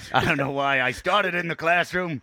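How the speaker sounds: a hint of the crime dog, mildly hammed up; gruff crime dog. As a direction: bark it like a washed-up mascot. Voices McGruff the dog.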